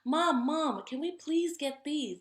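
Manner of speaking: put-on mom, mom, please, a kid begging; child pleading with mom for the underwear. A narrator's reading. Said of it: "Jasper pleaded".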